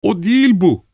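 high-pitched cry of dismay; horrified cry. A narrator's reading. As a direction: cry out in shock at the wrong man. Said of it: "diye haykırdı". (dehşetle, tiz sesle haykırarak)

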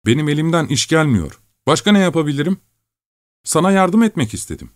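a hurt friend explaining why he stole; Şakro pleading. Acted. Narrator voices Şakro's reply.

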